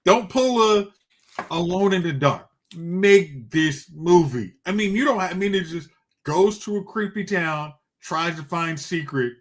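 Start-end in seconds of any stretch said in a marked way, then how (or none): 0.0-4.5 loud, pleading demand; demanding shout. Retold or imitated. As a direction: insist loudly, stretching the end. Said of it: "it screams".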